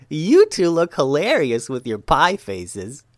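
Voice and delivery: high, slow mocking boy voice; gleeful little boy. A narrator's reading. Little boy mocks the pie-covered ninjas, gleefully amused. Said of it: "laughed the boy".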